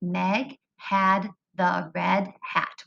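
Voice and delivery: slow, evenly spaced words; slow choral reading. Shown as a demonstration. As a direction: say it slowly together with the kids. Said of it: "say that sentence with me".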